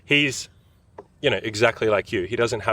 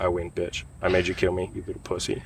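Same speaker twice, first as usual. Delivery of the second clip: softer, fading smug taunt; dying taunt; 2 semitones lower, 5 dB quieter than usual. Retold or imitated. Imagined dying man taunting his killer, softer. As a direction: sneer it with the last breath. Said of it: "As I'm going out, I'd be like".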